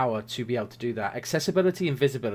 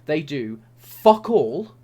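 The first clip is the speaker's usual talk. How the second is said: slow, loud and belligerent; aggressive; 5 dB louder, much slower than usual. Real, not acted. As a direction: spit out each word in anger. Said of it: "I don't care if I sound aggressive".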